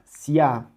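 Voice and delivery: The name glided together as a single syllable; one syllable. Shown as a demonstration. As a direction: run the I into the A in the name. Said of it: "pronunciando en una sola sílaba". (el nombre en una sola sílaba, como diptongo)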